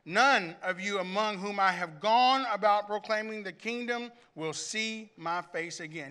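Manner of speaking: measured, weighty reading with long pauses; lightly dramatized Bible reading; emotional scripture reading. Acted. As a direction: read Paul's farewell as if you feel it. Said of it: "I want you to hear his emotion".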